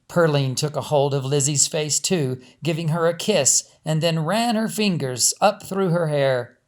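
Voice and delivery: steady storyteller reading a novel aloud; story narration. A narrator's reading. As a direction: tell it evenly, like reading a chapter to listeners.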